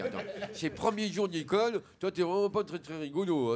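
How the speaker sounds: loud lisped protest, s as sh; speech defect. Acted. Little boy objecting to a first-day school prank, lisped protest. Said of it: "il parle comme ça".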